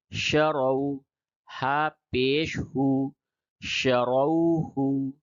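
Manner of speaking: شروہ with a full, heavy r, drawn out; thick-voiced r. Shown as a demonstration. Teacher drilling the full ra, شروہ thick and slow. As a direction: spell it out, then stretch شروہ with thick r. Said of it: "پڑ پڑھیں گے یعنی موٹی آواز سے".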